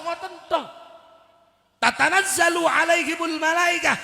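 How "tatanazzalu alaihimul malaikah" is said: loud recitation. Shown as a demonstration. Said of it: "Kabeh niku kan masuk malaikat".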